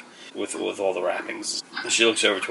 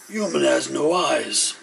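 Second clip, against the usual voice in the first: slightly raised, slow drawn-out character voice; Doom's character voice; 4 semitones higher, slower than usual. Acted. Doom looks over the newcomer, lightly voiced slow character. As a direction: draw it out slowly as an odd character. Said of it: "You see Doom goes".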